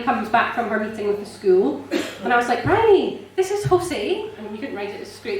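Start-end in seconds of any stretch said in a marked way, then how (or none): 2.6-4.3 high and bursting, calling her friend over; excited introduction. Retold or imitated. Telling Bryony about the cafe owner, high and excited. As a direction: announce him like a wonderful surprise.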